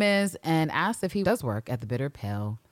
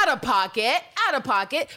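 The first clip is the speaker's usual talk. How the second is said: indignant exclaim; 7 semitones higher, 3 dB louder than usual. Real, not acted.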